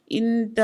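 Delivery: ఇంత drawn out and left hanging; breaking off. A narrator's reading. Wife regretting they gave the man nothing, breaking off on ఇంత. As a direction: stretch ఇంత, then stop mid-thought. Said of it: "అంటూ ఆగిపోయింది".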